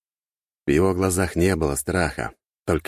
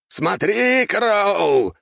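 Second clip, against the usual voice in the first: very high, louder cry; triumphant shout; 5 dB louder, much slower than usual. A narrator's reading. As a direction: hurl it at the enemy. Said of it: "закричал Артега".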